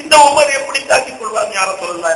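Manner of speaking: climbing sermon lament for the lost Prophet; weeping lament. Retold or imitated. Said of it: "என்று நான் அழுகிறார்".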